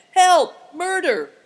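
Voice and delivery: very loud, high cries; panicked, high-pitched yells; shout for help. A narrator's reading. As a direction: scream out for rescue. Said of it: "shouted the man".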